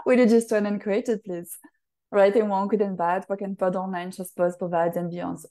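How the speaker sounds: rapid ritual recitation. Acted. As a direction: rattle off the clearing statement like a practised incantation. Recites ritual clearing statement.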